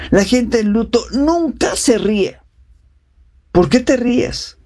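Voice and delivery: high, slow, prim disapproval, hammed-up; mock judgmental scolding. A self-righteous mourner scolding the bereaved, in a high mock-scolding voice.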